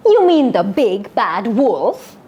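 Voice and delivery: slow, snooty question. Shown as a demonstration. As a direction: look down on the silly wolf story, slowly. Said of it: "act a little snooty like a Red".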